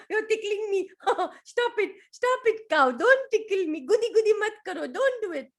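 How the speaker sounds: high, loud giggling pleas; laughing protest. Acted. Tickled elephant begging the cow to stop, giggling. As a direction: beg to stop while giggling.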